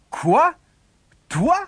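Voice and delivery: high, incredulous outburst; exclaiming. A narrator's reading. Brothers and mother hearing the youngest's offer, incredulous. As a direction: exclaim in sharp disbelief. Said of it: "s'exclamèrent ses frères et sa mère".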